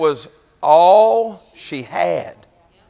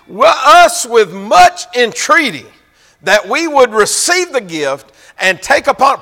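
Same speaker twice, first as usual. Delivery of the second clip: loud preached scripture; 7 semitones higher, 5 dB louder, slower than usual. Shown as a demonstration. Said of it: "The Bible says".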